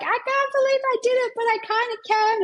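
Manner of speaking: a thrilled client who can't believe her win; excited client. Retold or imitated. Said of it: "She was so excited".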